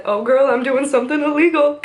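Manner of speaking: lightly voiced Mulder gloating; sassy mock Mulder. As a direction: boast like a cheeky friend. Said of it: "he's like".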